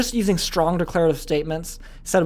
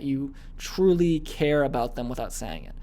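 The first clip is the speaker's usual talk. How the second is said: utter sincerity; 2 semitones lower, 4 dB quieter, slower than usual. Shown as a demonstration. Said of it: "this is used by lowering your voice".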